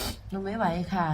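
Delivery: soft and slow, fading; barely manage the words; weak child. Retold or imitated. Sick girl tells mother she can't, softly.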